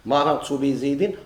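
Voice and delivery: مررت بزيد read slowly, lifting مررت; slow example phrase. Shown as a demonstration. Teacher repeats the example for students, slow and clear. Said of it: "هذا يقولوا له الجار".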